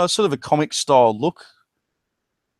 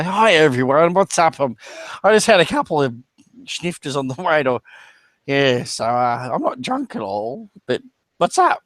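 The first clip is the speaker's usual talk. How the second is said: tipsy greeting; 3 semitones higher than usual. Pretend. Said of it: "walk in there with beery breath and say".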